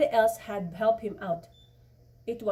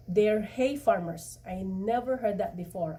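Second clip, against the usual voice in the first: sarcastic. Acted. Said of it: "I said sarcastically".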